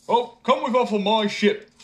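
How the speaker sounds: high, loud call; simpleton inviting. A narrator's reading. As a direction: invite him aboard. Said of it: "he answered".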